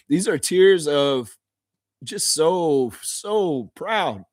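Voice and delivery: laughing through tears. Real, not acted. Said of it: "This isn't sad tears".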